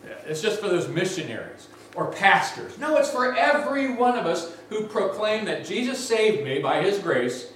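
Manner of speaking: ordinary talk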